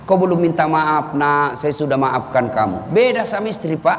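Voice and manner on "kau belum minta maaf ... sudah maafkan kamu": slow, tender imitation of a mother forgiving her son; lightly voiced, unhurried motherly forgiveness; gentle mother forgiving. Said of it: "selalu dia kata itu". (suara ibu yang lembut dan pelan memaafkan)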